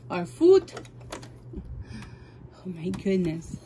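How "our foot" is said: "Our foot" higher and louder, half called out; louder "Our foot" after muttering it; louder repeat. Real, not acted. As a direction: say "Our foot" again, out loud this time. Repeats instruction, second louder.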